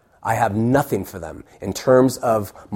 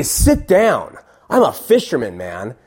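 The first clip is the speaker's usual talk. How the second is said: Peter voice; slower than usual. Retold or imitated. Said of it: "You need your pirate voice to do Peter".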